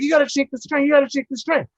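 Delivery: high, loud repeated command; yelled order. Retold or imitated. Crew yelling at Tim to shake the train, loud. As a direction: shout it again, insistent. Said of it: "They're like".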